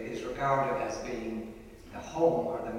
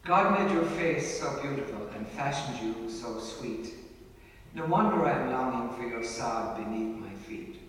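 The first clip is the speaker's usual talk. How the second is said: poem recitation. Acted. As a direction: recite it like a fond ballad. Recites a poem about Clare.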